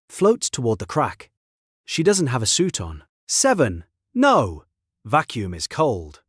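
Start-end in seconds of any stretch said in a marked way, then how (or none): 3.2-4.6 sudden desperate yell, rising high; shout. Acted. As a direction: cry out in alarm. She floats toward the vacuum.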